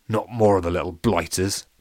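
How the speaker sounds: lightly voiced pirate grumble; a hint of pirate, under breath; muttering to himself. Pirate grumbles to himself. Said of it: "Pete said to himself".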